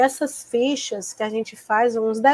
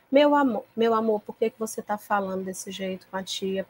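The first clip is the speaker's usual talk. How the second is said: softer, tender coaxing question; gentle reassuring teacher; 5 dB quieter than usual. Retold or imitated. Teacher calming an aggressive pupil, softly tender. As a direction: soothe an upset child. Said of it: "você vai sempre".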